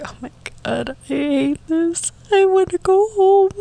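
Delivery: whiny despair. Retold or imitated. Wanting to leave the station late at night, rising whine. Scared by an aggressive yelling man.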